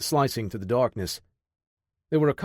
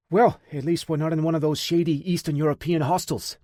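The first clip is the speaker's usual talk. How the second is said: feigned bravery; 5 semitones higher than usual. A narrator's reading. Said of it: "feigning bravery".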